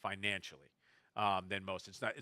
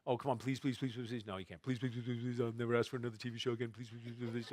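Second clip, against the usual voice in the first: put-on child begging; 4 dB quieter, faster than usual. Four-year-old daughter begging.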